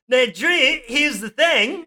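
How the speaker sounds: high, put-on Aussie greeting; hammed-up Australian mate on the phone; Australian accent. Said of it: "Oh, wait, we're Australian".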